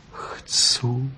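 whispered, meek yes; unvoiced, shy whisper; humble whisper. A narrator's reading. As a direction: breathe the answer humbly. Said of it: "odvětila pokorně".

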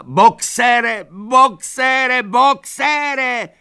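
very high, loud shouting; desperate shout. A narrator's reading. Lupina running after the cart, desperate shout. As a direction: scream his name again and again. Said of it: "křičela".

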